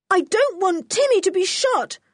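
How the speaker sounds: high-pitched cry of terror; high, frightened child's outcry; terrified cry. A narrator's reading. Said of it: "cried out George in terror".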